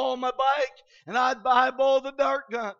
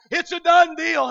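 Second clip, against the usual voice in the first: preached proclamation; 5 semitones higher, 10 dB louder than usual. Acted. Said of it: "I cried on Calvary's hill".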